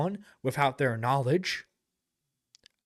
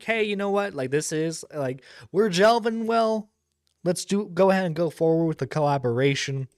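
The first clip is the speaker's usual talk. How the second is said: mock smug pitch; 4 semitones higher than usual. Mocking the guy's pitch.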